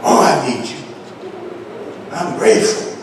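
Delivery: soft, hushed thanks to God; grateful prayer. Acted. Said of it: "you say".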